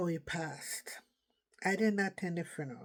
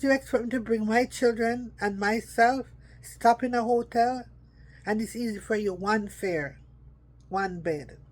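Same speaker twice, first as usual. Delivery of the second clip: raised, higher voice, pushing back in disbelief; an exasperated daughter protesting; indignant retort; 4 semitones higher, 7 dB louder than usual. Retold or imitated. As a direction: argue your case louder and higher. Arguing with father about the visit.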